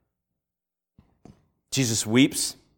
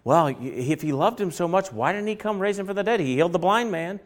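sceptical bystanders; 5 semitones higher, 3 dB quieter than usual. Retold or imitated. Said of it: "other people saying".

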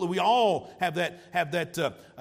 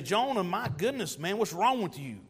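self-righteous scolding. Retold or imitated. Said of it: "look at him and say".

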